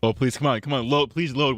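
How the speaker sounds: begging the page to load, pitch rising; urgent high please to the screen; pleading with a machine. Real, not acted.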